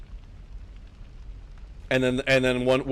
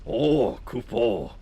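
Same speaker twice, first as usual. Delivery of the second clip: drawn-out Kupo in a mock Boater accent; lightly caricatured Boater accent; 3 semitones lower, much slower than usual. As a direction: put on a Boater accent for the creature's cry. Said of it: "Boater accent".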